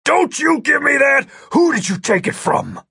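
loud, high-pitched bellow down at him; angry bellow. A narrator's reading. Agent towering over the suspect, bellowing angrily. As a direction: bellow it as an accusation. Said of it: "bellowing down at him".

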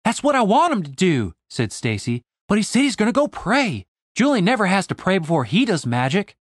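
put-on high, insistent young woman; Stacy, exasperated. Stacy insists to the elves that Julian needs medicine, high and insistent. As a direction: press the point, fed up.

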